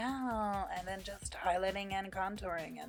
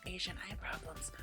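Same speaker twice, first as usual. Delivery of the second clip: muttered whispered joke; whispering; 9 dB quieter than usual. Real, not acted. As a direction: whisper it as a quick aside. Joking aside about her eyes.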